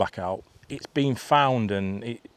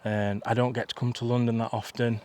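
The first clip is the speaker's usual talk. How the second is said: lightly imitated actress making friendly small talk; a hint of a badly faked celebrity accent; half-hearted go at a film star's voice; Renée Zellweger; 2 semitones higher than usual. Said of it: "Again, I can't do her accent".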